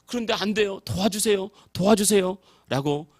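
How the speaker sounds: desperate prayer building from hushed to loud; pleading prayer. Retold or imitated. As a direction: cry out to Jesus for help, then drag out the last plea. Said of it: "기도를 하기 시작했는데".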